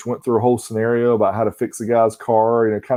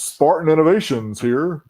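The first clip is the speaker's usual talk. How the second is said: pitched-up radio announcer intro; old radio voice; 5 semitones higher than usual. Shown as a demonstration. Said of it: "I missed your old radio voice".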